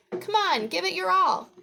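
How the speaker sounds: high, squeaky cheering mouse; Marvin. A narrator's reading. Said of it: "Marvin squeaks".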